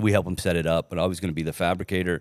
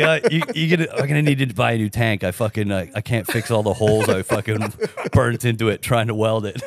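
sheepish loud confession; 3 semitones higher, 5 dB louder than usual. Retold or imitated. Retelling asking friend sheepishly.

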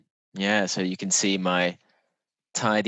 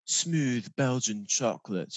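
slow, soft sensual food-ad read; imitating a sultry advert voiceover; 5 dB quieter, slower than usual. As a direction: linger luxuriously over each word. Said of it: "like, an extremely sensual voice".

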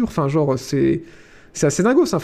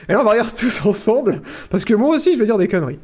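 trying not to laugh; 4 semitones higher than usual. Real, not acted. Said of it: "J'essaie de garder mon sérieux".

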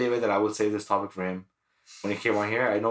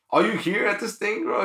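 high, excited dude greeting; bro at a metal show; 10 semitones higher than usual. Retold or imitated. High bro greeting from a stranger in the alley. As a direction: play a hyped bro at the door.

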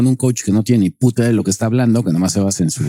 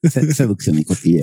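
mock Spanish accent; 2 semitones lower than usual. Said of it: "imitar el acento español".

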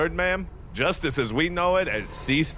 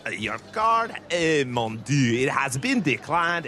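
put-on lightly done French accent, waiter style; a hint of a French waiter's accent; 4 semitones lower than usual. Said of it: "should I still be French?".

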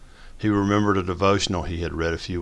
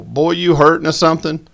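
forced nice; 9 semitones higher, 7 dB louder than usual. A narrator's reading. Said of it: "as nicely as possible".

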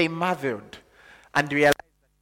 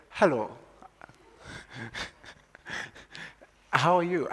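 put-on posh kid greeting. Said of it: "you'd expect him to say".

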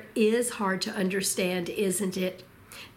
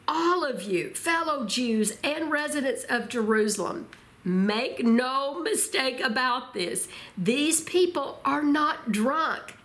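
raised pitch, slow emphatic proclamation; Peter, mildly shouting; 4 semitones higher than usual. Retold or imitated. Preacher quoting Peter to fellow Jews in Jerusalem, mock proclamation. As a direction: address a crowd firmly, stretching the key words. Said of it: "he shouted to the crowd".

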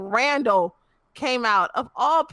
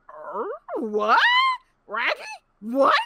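baffled; 11 semitones higher than usual. Retold or imitated. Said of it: "I was in the Sonic driveway going".

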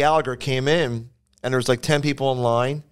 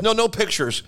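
refusing headliner; 8 semitones higher than usual. Retold or imitated. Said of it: "He goes".

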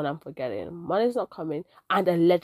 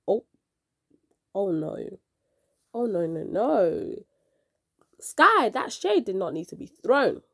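breathy whispered aside; stage whisper; slower than usual. Real, not acted. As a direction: whisper it like gossip. Reacting to the poem's shade.

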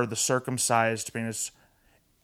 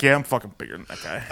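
mock boast; faster than usual. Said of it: "to be like".

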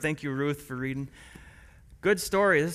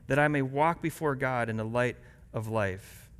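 scripture reading. Acted. Pastor reading Psalm 56 to the church, earnest reading. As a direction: read the psalm to the congregation. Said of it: "Listen as I read Psalm".

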